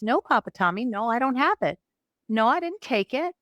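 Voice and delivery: put-on high, pleading child's denials; tearful five-year-old protesting, imitated; imitated crying child. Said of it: "And she's crying".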